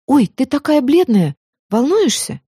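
высокий участливый голос; заботливо удивись бледности; встревоженная Майя. A narrator's reading. (участливо и звонко)

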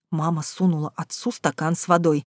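ordinary delivery, nothing marked

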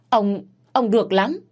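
mother-in-law stung by her husband's rebuke; bitter old woman. Acted. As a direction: spit it out, stung and spiteful. Wife's bitter comeback.

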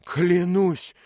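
loud, very high exclamation; astonished shout. A narrator's reading. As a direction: shout an oath in sudden realization. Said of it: "крикнул он". (изумлённый громкий выкрик)

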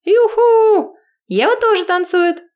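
very high loud squeal; excited squeal. Acted. Lyudochka pulling Eva into the dance, high excited squeal. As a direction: squeal and demand. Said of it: "требует Людочка".

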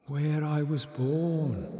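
put-on slow, soft young girl sighing. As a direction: sigh it wistfully. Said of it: "sighed the voice".

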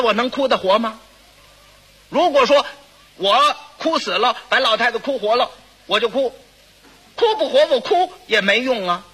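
mildly indignant comic retort; suddenly offended. Acted. Second son answers neighbour asking why he doesn't cry, suddenly offended. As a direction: bristle at being asked, pausing between phrases. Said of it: "当时就掉脸儿".

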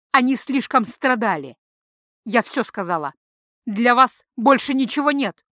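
loud, ominous prophecy; loud seer's warning; frenzied warning. Acted. Priestess warns the men in a frenzy.

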